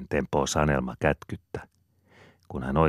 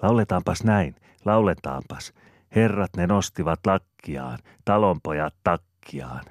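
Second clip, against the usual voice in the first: put-on higher, louder exclaiming to the other kids; eager call; 4 semitones higher, 4 dB louder than usual. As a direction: call out a new song idea. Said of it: "huudahtaa toisille".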